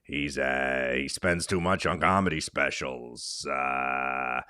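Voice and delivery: a light Long Island comic voice; Jim Florentine impression. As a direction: riff like a gruff Long Island comedian. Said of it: "now he's doing Jim Florentine impressions".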